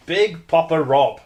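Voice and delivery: sultry voice. Acted. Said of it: "my sexy cold voice".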